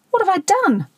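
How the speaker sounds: plaintive high wail, lightly acted; moaning. A narrator's reading. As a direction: moan it to your wife, pitched right up. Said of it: "Shrove moaned to his wife".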